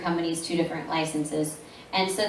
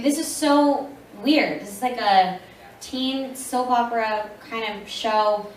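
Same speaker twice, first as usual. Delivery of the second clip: baffled self-quote; 4 semitones higher than usual. Retold or imitated. Her first Peach Girl audition.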